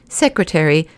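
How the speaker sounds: serious. Acted. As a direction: weigh the word soberly. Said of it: "said the president seriously".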